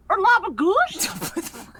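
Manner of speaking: put-on slow, drawn-out New York accent on Labagoosh; a light New York accent, slowly. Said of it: "tried to say it with a New York accent".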